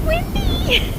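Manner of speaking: high delighted shout into the wind; excited yell. Real, not acted. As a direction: yell it out, thrilled. Exclaiming on a windy ridge.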